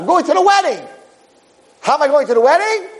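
very high falsetto, partly shouted; a tiny voice crying out the ordeal; squeaky suit voice. Acted. The suit describing the spin and the presser, in a squeaky shout.

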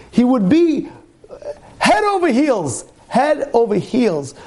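high, drawn-out head over heels; fervent preaching climax; rapturous emphasis. Real, not acted. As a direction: swept away by it.

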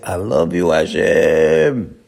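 low, drawn-out declaration of love; heartfelt devotion. Shown as a demonstration. Telling God you love Him as you kiss the mezuzah, heartfelt. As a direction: savour each word, stretching the last one out. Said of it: "do it a little bit better".

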